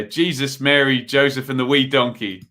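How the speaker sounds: a light hint of the stern superintendent's oath; a mock-exasperated oath, lightly voiced; Ted Hastings catchphrase. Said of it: "Ted Hastings tones".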